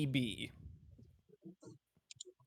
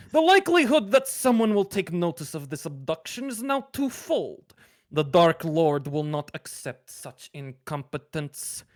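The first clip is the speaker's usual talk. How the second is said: put-on Russian accent; 4 semitones higher, 5 dB louder than usual. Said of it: "in a, this, this Russian accent".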